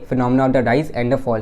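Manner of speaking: slow, word by word for notes; measured dictation pace. Shown as a demonstration. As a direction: dictate it so students can write. Repeating definition slowly.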